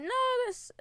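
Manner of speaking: high squeal without much volume; mock scream. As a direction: imitate a squeaky player screaming into the mic. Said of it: "he starts screaming into the mic".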